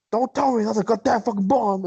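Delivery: high-pitched mock exasperation; imitated angry superior. Retelling angry Bender seeing the bomb, mock exasperated. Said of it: "his old angry ass comes on over".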